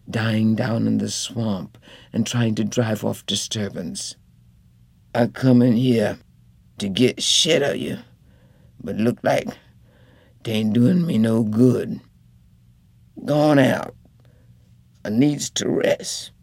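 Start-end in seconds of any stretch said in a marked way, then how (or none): 5.1-16.3 a lightly voiced sick husband, sullen and tired; a hint of a grumbling bedridden man sending her away; sick husband, surly.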